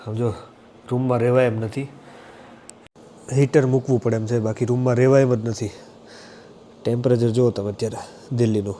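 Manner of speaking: voice clogged with a cold. Real, not acted. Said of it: "અવાજ જામ થઈ ગયો છે".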